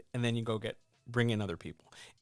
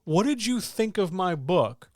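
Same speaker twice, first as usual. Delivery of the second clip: vague writer question; 6 semitones higher, 5 dB louder, slower than usual. Retold or imitated. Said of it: "is not feedback".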